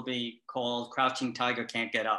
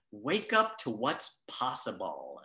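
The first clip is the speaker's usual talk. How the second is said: packaging slogan read; slower than usual. Retold or imitated. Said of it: "it said".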